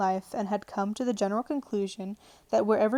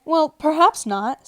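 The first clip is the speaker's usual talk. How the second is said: soothing; 7 semitones higher, 9 dB louder, slower than usual. Acted. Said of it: "in a soothing tone".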